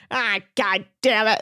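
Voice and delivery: a hint of a gruff old captain swearing; lightly voiced captain curse; Captain Lee grumble. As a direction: mutter the curse like a tired old skipper. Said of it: "That's all he ever says".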